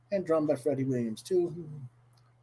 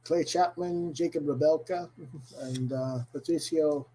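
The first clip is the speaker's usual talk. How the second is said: bad, hammy Irish accent. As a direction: lay on a cheesy Irish brogue. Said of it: "doing a really bad Irish accent today".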